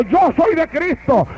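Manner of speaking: shouted declaration. Shown as a demonstration. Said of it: "Grítelo".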